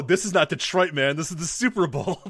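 high, loud mock announcer; quoting the call. Friend repeating the famous radio call, high and loud. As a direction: belt it like the radio guy. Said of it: "Oh, the call".

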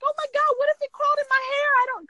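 high, fast panic; panicked. Retold or imitated. Wife fearing a spider in her hair, high fast panic. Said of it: "And I'm like".

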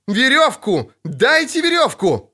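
high, frantic shouting; крик. A narrator's reading. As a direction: shout desperately for help. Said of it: "кричал Лютик". (отчаянно кричать высоким голосом)

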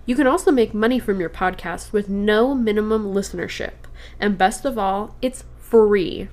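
upbeat podcast ad read. Acted. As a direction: read it like a sponsor spot. Reads sponsor ad.

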